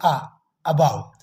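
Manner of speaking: आ drawn out, then अबाव slowly; slow vowel demo. Shown as a demonstration. Teacher slowly sounding out above for students. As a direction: stretch the आ before अबाव. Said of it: "ये ए आह का आवाज़ देता है".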